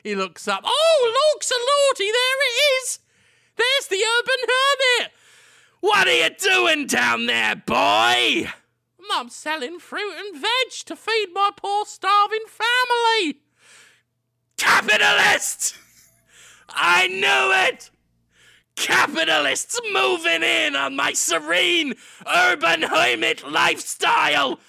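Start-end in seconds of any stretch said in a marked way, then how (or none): 0.7-5.1 very high and loud amazed cry; excited vendor. Acted. Vendor spots hermit. 5.8-8.5 loud mock yell from above; hermit shout. Hermit yells down. 9.1-13.4 squeaky-high innocent fruit seller; high vendor voice. Acted. Vendor answers up. 14.6-24.6 hammed-up furious rant.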